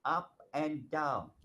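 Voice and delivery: "up and down" said slowly, moving with the words; slow demo of "up and down", pitch following the meaning; up and down intonation. Shown as a demonstration. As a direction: let "up" rise and "down" drop, unhurried. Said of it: "how your voice goes up and down".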